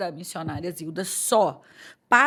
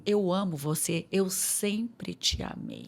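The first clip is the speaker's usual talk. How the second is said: softer, slow loving voice; loving father's reassurance; tender; 3 semitones lower, 6 dB quieter, slower than usual. Retold or imitated. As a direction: say it like a father's gentle love. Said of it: "ele falava assim".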